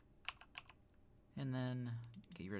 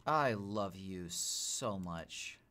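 lower, slow and tender; 4 semitones lower, 3 dB quieter, much slower than usual. Real, not acted. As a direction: linger on every word like cooing to a pet. Fond words to a game pet.

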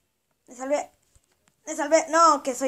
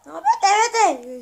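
slow, laughing, higher and louder; 7 semitones higher, 8 dB louder, much slower than usual. Real, not acted. Player laughing while shooing the game character away. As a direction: laugh the words out as you shoo it off.

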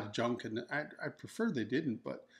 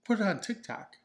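much higher, a gushing pet-lover squeal; mock gushing voice; 10 semitones higher than usual. Husband mocks his own reaction, gushing high voice. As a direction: play up the excitement over a cat. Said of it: "of course I'm gonna be like".

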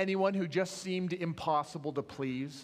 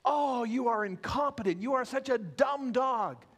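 louder, higher hammed-up scolding; yelling owner; 6 semitones higher, 4 dB louder than usual. Owner yelling at his dog at the door, mock angry. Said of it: "the owner starts yelling at his dog".

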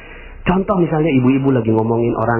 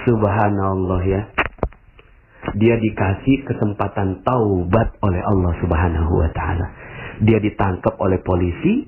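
sincere blessing; 4 semitones lower than usual. Shown as a demonstration. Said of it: "Ngomongnya gini".

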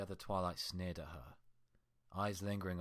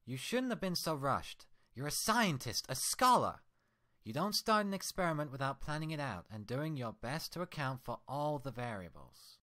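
higher, louder furious scolding; angry Twilight; 6 semitones higher, 5 dB louder than usual. Acted. Twilight scolding her mirror twin, furious and loud. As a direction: tear into her reflection with rage. Twins argue.

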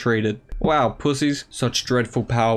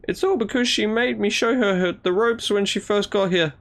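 a bit higher, smug bragging; lightly voiced show-off; 7 semitones higher than usual. Rival boasting he showed Akari the ropes, smugly. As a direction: brag lightly about teaching her.

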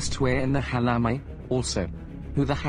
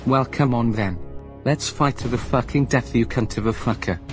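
a bit louder, gloating and scornful; mocking taunts; 5 dB louder than usual. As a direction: sneer at the rival, relishing the fight. Gleeful taunts before the fight.

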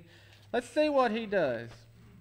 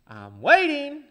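tag; 4 semitones higher, 6 dB louder, slower than usual. Retold or imitated. Thomas voiced, impatient.

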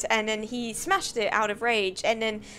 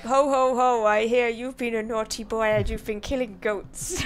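lightly voiced Santa; 3 dB louder than usual. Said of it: "Santa came and he was like".

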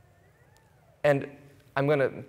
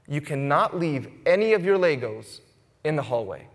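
mildly stern parent laying down a rule; measured, understated firmness with deliberate pauses. Retold or imitated. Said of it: "And it said that sternly".

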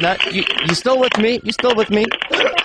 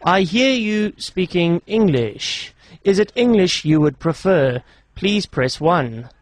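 automated phone menu; 2 semitones lower, slower than usual. Pretend. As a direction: read out menu options slowly and evenly.

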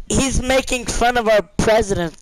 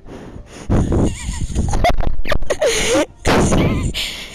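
high-pitched giggling burst; high laugh. Real, not acted. Laughing at the stranger after guessing Scottish, high giggle. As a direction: giggle up high and let it rise.

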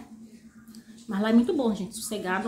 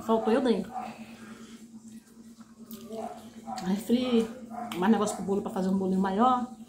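chewing while talking; speaking between bites; mouth full of noodles. Real, not acted. Seen 1: Slurps noodles, then chews and talks with cheeks full.

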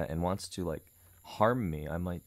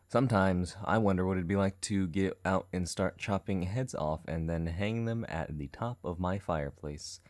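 creepy musing; 3 semitones lower than usual. Acted. Customer musing to Daniel about chopping heads, creepy musing.

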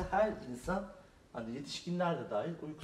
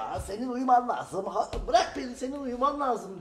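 pleading dwarf; 7 semitones higher, 7 dB louder than usual. Acted. Dwarf pleads while boy plays.

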